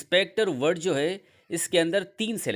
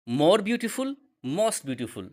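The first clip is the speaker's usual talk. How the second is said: slow model phrase; 3 semitones higher, much slower than usual. Shown as a demonstration. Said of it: "जैसे कि".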